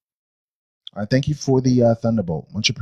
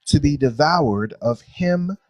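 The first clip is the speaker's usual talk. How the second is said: slow, deliberate verse reading aloud; scripture reading; 2 semitones higher, slower than usual. Acted. Teacher reading creation verses to a class, measured scripture reading. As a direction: read it out solemnly, phrase by phrase.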